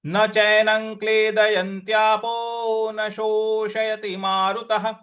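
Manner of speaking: line recited in steady verse rhythm; recitation. Shown as a demonstration. Teacher recites the full line for students. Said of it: "तो पूरी पंक्ति क्या बन रही है".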